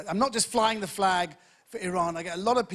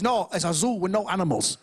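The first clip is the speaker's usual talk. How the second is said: put-on lightly caricatured Chinese accent; a touch of mock Chinese accent. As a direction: deliver the punchline as an imitated Chinese man. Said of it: "a Chinese guy saw my show".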